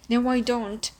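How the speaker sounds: shouting back at her mother from the hall. A narrator's reading. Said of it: "she shouts back".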